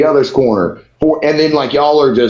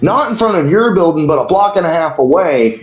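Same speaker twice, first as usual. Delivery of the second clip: higher, indignant calling out; heated confrontation; 5 semitones higher than usual. Retold or imitated. Calling out the door guy, indignant. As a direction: confront the bragging bouncer. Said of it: "And I'm like".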